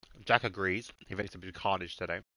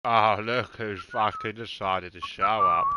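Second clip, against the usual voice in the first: sarcastic; 5 dB louder, slower than usual. Real, not acted. Mock greeting to a latecomer.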